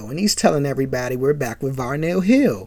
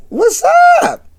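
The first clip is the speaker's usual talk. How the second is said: copied what's up; 6 dB louder than usual. Retold or imitated. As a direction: repeat the host's what's up, tasting it. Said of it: "I like that".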